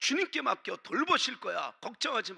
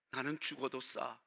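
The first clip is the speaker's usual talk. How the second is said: despairing self-talk; 9 semitones lower, 11 dB quieter than usual. Retold or imitated. Peter sinking, despairing self-talk.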